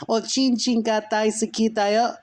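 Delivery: eerie demon voice. Acted. Dark lord calling to sleeping Frank, very high eerie voice. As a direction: call like an otherworldly dark lord.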